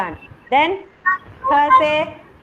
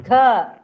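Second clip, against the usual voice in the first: KHA with emphatic aspiration; stressed KHA; 3 dB louder than usual. Shown as a demonstration. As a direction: lean hard on the breathy start of KHA. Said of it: "Stress and pronounce".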